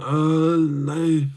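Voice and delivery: lightly voiced monotone fighter; mimicking the fighter's deadpan press-conference chirp; monotone Ankalaev. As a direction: drone it out with no lift in the pitch. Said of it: "he's always monotone".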